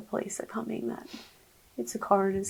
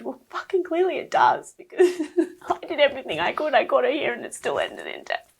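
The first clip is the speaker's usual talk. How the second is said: higher, louder, furious retort, half laughing; spitting out her inner rage at the doctor; 6 semitones higher, 4 dB louder than usual. Retold or imitated. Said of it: "internal rage".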